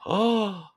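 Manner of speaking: mock-offended high gasp; scandalized little "oh"; shocked gasp. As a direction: imitate people gasping in shock. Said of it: "people are like".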